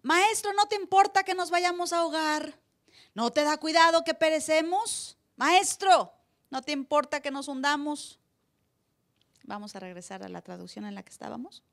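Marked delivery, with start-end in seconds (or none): 0.0-8.2 grito muy agudo y lento; gritando. Retold or imitated. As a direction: clama desesperado para que despierte. Reading disciples' cry in translation. (los discípulos le gritan al Señor en la barca, desesperados)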